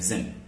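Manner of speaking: "zin" as a separate syllable; isolated syllable. Shown as a demonstration. Teacher splitting prison into two syllables, isolated "zin". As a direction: say "zin" alone, z into n. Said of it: "it contains two syllables".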